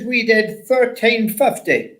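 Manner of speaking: slow, high mock Yorkshire; Yorkshire accent. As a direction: report it slowly in put-on Yorkshire. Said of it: "in his clearest Yorkshire accent".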